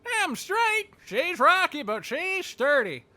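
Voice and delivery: squeaky excitable dog voice; Ben. Acted. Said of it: "Just fucking squeaky fuck".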